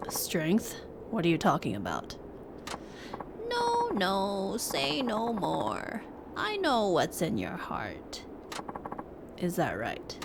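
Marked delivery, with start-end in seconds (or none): 3.5-8.2 put-on slow, lightly aged old man; a wise old hermit, unhurried. Reads old hermit NPC lines.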